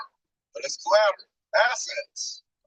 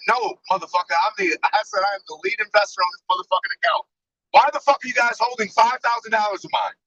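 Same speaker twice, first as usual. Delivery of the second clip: retold angry rant; 5 semitones higher than usual. Retold cussing at the bank.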